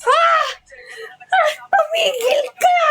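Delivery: high laughing squeal of protest; playful shriek. Pretend. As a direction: shriek it half laughing, half crying. Playful outburst at someone teasing.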